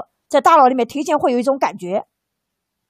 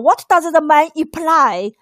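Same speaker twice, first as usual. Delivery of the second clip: slow exam question read; slower than usual. Shown as a demonstration. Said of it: "暗示题型是最难的".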